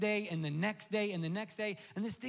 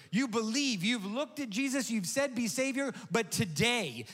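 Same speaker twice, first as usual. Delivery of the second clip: louder, rising preacher's call; preaching; 3 dB louder than usual. Real, not acted. Pastor urging the congregation to rise up, preaching loudly. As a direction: build the appeal to the congregation.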